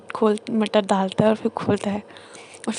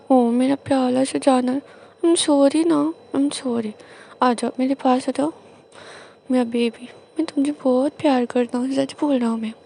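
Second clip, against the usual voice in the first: pleading apology; 3 semitones higher, 4 dB louder than usual. Retold or imitated. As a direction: win him back with sweet talk. Husband coaxing sulking spouse. (मनाते हुए प्यार से माफ़ी)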